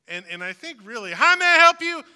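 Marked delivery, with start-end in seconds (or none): 1.1-2.0 loud, high barked greeting; commanding shout. Retold or imitated. Restaurant worker shouting the greeting as a command. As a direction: yell it like an order at the counter. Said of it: "slightly more polite way of saying".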